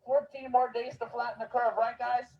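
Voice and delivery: syrupy sarcastic reassurance to the crowd; sarcastic preacher soothing the public; mock reassuring. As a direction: lay on the fake sincerity like a friendly official. Sarcastic street speech mocking authority.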